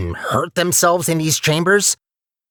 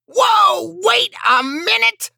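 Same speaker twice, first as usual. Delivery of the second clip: startled; slower than usual. Acted. Robot startled by discovery.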